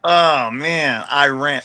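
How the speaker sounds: quick, cocky street talk; street swag voice. Retold or imitated. Wrestler using "I ran" in a sentence, fast and cocky. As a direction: rattle it off like a homie with a story. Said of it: "So I'd be like".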